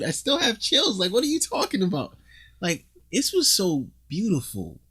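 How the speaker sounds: high, emotional awe; moved. Real, not acted. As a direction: gush about it, moved. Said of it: "I'm choking up".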